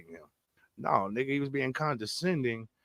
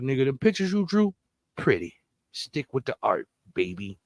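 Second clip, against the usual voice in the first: mock condescending. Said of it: "he put a button on it at the end".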